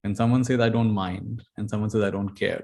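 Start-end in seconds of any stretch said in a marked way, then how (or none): 0.6-1.4 tolerant. Shown as a demonstration. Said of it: "there's a very big difference". 2.0-2.6 dismissive. Shown as a demonstration. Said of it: "there's a very big difference".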